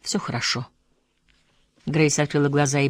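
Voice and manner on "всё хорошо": soft reassurance. A narrator's reading. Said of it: "прошептал он".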